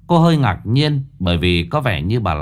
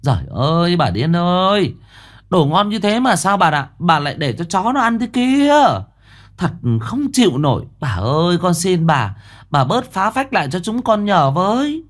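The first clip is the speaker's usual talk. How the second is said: exasperated scolding, pitched much higher; scolding servant; 8 semitones higher than usual. A narrator's reading. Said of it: "có tiếng gắt gỏng". (người làm gắt gỏng, giọng cao và bực bội)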